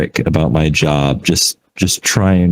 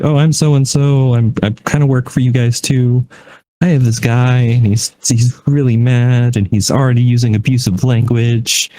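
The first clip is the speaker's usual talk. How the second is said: mildly upset agent, higher pitched; upset caller; 5 semitones higher than usual. Retold or imitated. Agent transferring an angry customer, mildly upset. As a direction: imitate a flustered caller, lightly raised pitch. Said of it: "she sounded so upset".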